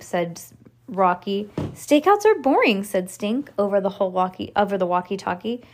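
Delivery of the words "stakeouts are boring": raised, louder whine of complaint; complaining. A narrator's reading. Kid on a stakeout grumbling to friends, complaining. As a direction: gripe about being bored.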